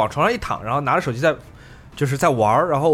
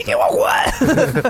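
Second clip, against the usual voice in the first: frantic, wild yell, very high and very slow. Retelling how he opened the door after the knocking and yelled: retelling a wild yell. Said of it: "他狂喊一声".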